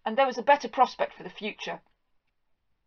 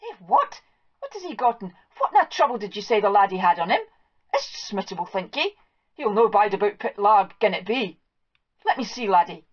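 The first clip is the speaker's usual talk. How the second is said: anxious farm wife. Acted. Wife fears a catching disease.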